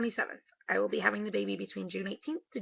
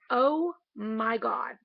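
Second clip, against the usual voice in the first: amazed; 5 dB louder, much slower than usual. Retold or imitated. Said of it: "I looked over and I said".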